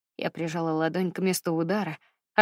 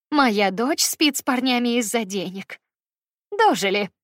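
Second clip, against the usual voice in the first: slow, louder contemptuous spitting out of words; spat out in contempt; 3 semitones higher, 4 dB louder than usual. Acted. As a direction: spit each word at her with disgust. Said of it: "выплюнула она".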